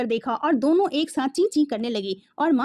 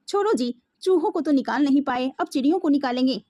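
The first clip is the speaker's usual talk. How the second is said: sarcastic. Acted. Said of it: "माँ ने व्यंग से कहा".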